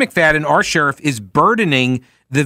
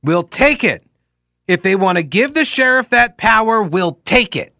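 raised-pitch mock repeat of someone's boast; mocking echo; 4 semitones higher than usual. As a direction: parrot the quote back derisively. Echoes the sheriff's clip mockingly.

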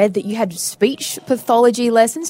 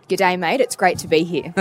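Australian accent demo; 4 semitones lower, slower than usual. Shown as a demonstration. Host feeding the guest a line to repeat, Australian accent. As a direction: lower Australian "g'day" to copy. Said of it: "could you give us an Australian accent then".

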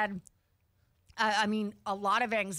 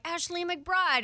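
announcer voice; 7 semitones higher, slower than usual. Retold or imitated. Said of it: "they're like".

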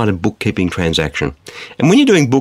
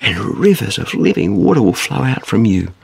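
Jesus calling out; 4 semitones higher than usual. Acted. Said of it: "says Jesus".

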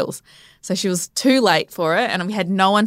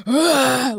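mock contraction groan, pitch raised; imitated animal groan; 6 semitones higher than usual. Labouring mother on every contraction, imitated animal groan. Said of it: "like an animal every contraction".

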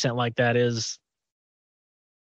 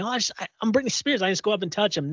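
lightly voiced gushing fangirl, higher and softer; mock a starstruck fan, quick and soft at first; fangirl mode; 4 semitones higher, 5 dB quieter, faster than usual. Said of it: "went into fangirl mode and thinking".

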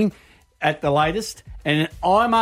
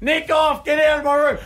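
much higher imitation of an annoyed teen; mock teen grumble; 10 semitones higher than usual. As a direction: whine it from under the pillow. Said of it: "they're like".

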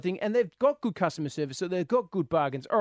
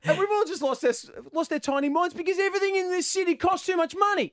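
excited; 13 semitones higher than usual. Real, not acted. Excited rant about prices.

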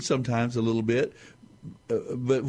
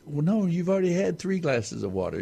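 higher, mock-stern grandpa; grandpa refusing; 8 semitones higher than usual. Grandfather retelling a bedtime story, voicing grandpa's mock-stern refusal. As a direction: gently scold the child. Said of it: "And he says".

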